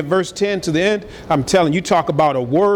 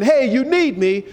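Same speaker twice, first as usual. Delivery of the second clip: higher, drawn-out acted call; crying out; 4 semitones higher, slower than usual. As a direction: call for attention, pitched up. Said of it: "wisdom is crying out saying".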